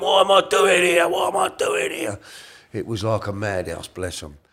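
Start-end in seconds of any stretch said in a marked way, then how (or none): 0.0-2.2 confused shout. Retold or imitated. Father startled awake in care home, confused shout. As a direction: yell it in bewildered alarm. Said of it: "He went".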